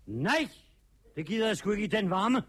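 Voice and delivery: fast, firm little-guy voice; determined little fellow. Acted. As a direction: refuse briskly as the bossy little tramp. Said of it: "så siger den lille".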